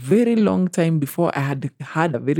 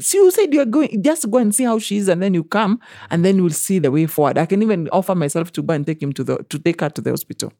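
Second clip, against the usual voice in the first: mock coaxing boss; 3 semitones higher than usual. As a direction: sweet-talk her out the door, pitched up. Employer voiced in retold exchange.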